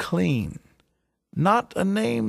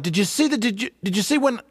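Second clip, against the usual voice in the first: excited yelling; 6 semitones higher, much faster than usual. Retold or imitated. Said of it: "I started to yell out".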